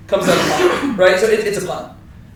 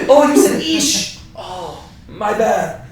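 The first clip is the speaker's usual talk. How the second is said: mock oops; slower than usual. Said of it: "acting like he misheard them".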